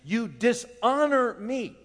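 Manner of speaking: lightly voiced stern Jesus; a hint of a rebuking Lord; voicing Jesus. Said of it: "that Jesus says".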